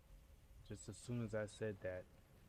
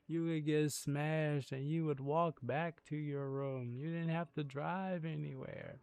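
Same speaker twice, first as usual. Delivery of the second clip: excited; 6 semitones higher, 4 dB louder, slower than usual. Real, not acted. Excited memory of cruise fun.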